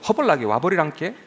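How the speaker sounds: lively Jeolla accent; Jeolla dialect. Shown as a demonstration. Preacher showing regional welcomes to congregation, Jeolla accent. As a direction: welcome them like a Jeolla local. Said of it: "전라도".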